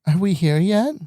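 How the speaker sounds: put-on high, rising kid's whine; impatient child. Parent imitating child asking from backseat, impatient child voice. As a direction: pester like a kid on a car ride.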